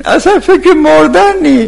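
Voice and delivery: high, drawn-out indignant cry; exclaiming in reproach. Real, not acted. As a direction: raise the voice sharply in exasperation. Preacher exclaims at graveside chatter.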